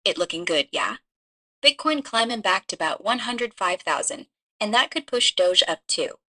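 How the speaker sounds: lightly put-on Chinese accent in English. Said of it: "stick to just the Chinese accent".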